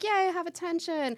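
high, bubbly "yay"; doll cheering. Pretend. Medium voicing the haunted doll's happiness, bubbly high cheer. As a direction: squeal it like a delighted little girl. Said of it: "to being like".

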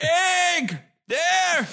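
put-on high-pitched old man cry; Abraham Simpson. Imitating a cartoon grandfather's cry, high and hammed-up. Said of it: "Like the way, uh, Abraham Simpson says".

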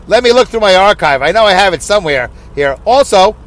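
badly faked voice of another man; a rough, lightly projected mimicry; Alex Exum impression. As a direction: keep up the poor imitation. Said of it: "That's a horrible, uh, impression".

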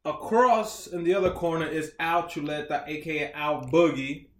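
drawn-out, hyped fight announcer; ring announcer. Acted. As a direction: stretch the names like a boxing MC. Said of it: "I let you do the promotion".

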